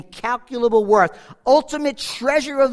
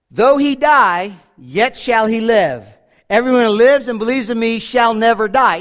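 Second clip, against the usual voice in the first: emphatic proclaiming; 2 semitones higher, 6 dB louder than usual. Acted. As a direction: thunder the verse out to the church. Rereads verse with full force.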